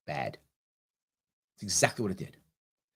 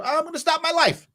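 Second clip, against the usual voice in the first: voiced friend offering; 8 semitones higher, 4 dB louder, faster than usual. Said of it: "She goes".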